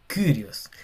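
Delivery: Kyrios with the y as i through rounded lips; French u. Shown as a demonstration. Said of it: "como una I pero con una boca de U".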